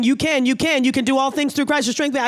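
fast, emphatic, insistent encouragement; encouraging voice of God. Retold or imitated. God answering the doubting believer, fast and insistent. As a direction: push the words out quickly to lift them up. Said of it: "He's saying".

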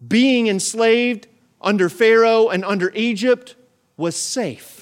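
loud, high building list; preacher listing old struggles, loud and climbing; full-force preaching. Acted. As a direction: pound out each item.

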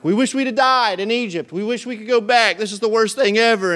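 high, loud whining complaint; grumbling Israelites begging to go back, whiny and loud. Retold or imitated. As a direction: whine like the grumbling crowd. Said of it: "They're saying things like".

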